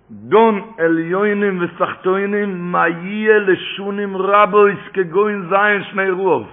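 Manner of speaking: slow, sustained liturgical recitation; drawn-out recitation. Real, not acted. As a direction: intone each word of the quote slowly. Reciting quoted liturgy in drawn-out chant.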